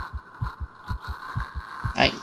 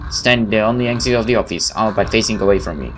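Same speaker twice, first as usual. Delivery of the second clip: story narration. Acted. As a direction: tell it like a creeping horror story. Reads the game's story text.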